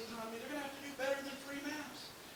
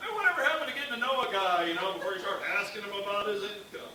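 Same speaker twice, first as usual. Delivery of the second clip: loud, quick mock outrage; mock indignant; 7 dB louder than usual. To the pretty gal, mock indignant and loud. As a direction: fire it back, indignant and fast. Retort after being asked about money.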